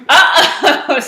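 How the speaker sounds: high, loud cartoon alarm; alarmed exclamation. A narrator's reading. Poquito reacts to Skipito's news, alarmed. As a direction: blurt it out with laughter in it. Alarmed dog, reader laughing.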